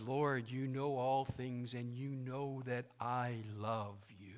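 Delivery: slow, subdued confession of love; Peter, broken. Acted. Peter confessing love to Jesus, broken. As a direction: draw it out as a heartfelt, humbled plea. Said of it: "He was broken".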